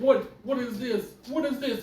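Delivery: high, loud what is this; shocked disbelief. Retold or imitated. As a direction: freak out in the theater. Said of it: "I'm like".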